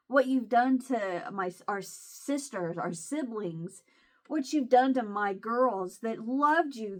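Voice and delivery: reliving the fury of blaming her brother; retold anger. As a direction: spit out each accusation slowly. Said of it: "how mad I was".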